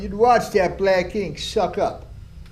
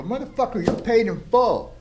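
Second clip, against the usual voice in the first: pitched-up angry ultimatum to a rival; retold furious threat; 3 semitones higher than usual. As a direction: lay down the threat like you mean it. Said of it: "I was so furious".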